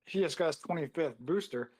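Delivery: usual speaking voice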